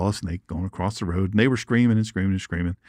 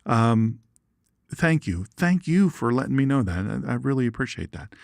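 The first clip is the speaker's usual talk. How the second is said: voicing Flying One. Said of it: "Flying One says".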